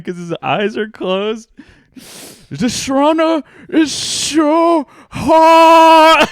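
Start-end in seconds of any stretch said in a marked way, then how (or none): 2.5-6.3 high, loud, slow, laughing moan; hammed-up overheated man, laughing through it; mock overheated moan. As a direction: whine it out like you're melting.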